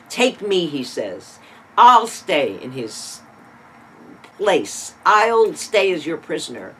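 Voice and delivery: loud, slowed plea to take his place; pleading loud. Retold or imitated. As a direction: beg loudly, stretching the words out. Judah pleads to take Benjamin's place.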